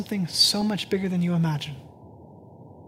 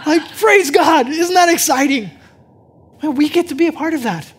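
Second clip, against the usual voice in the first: joyful praise; 8 semitones higher, 10 dB louder than usual. Acted. Laughing, exultant preaching.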